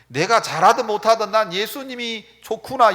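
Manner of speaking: normal talking voice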